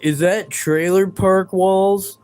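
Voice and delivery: slow, sneering mimicry of a troll; mocking impression. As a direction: drag it out like a smug know-it-all. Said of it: "you're not gonna be like".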